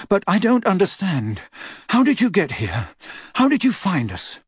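put-on puzzled, urgent teen boy; Harry voice. A narrator's reading. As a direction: press him for answers.

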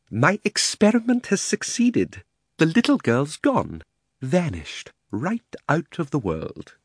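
high, slow proud triumph; triumphant. Acted. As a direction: gloat over the success. Uncle triumphant.

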